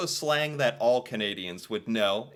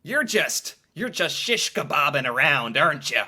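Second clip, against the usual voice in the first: mock greeting; 4 dB louder than usual. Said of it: "run up to some poor American and be like".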